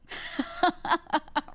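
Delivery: high, breaking-up giggle; amused laugh. Real, not acted. Laughing at advice to change how she talks, amused laugh.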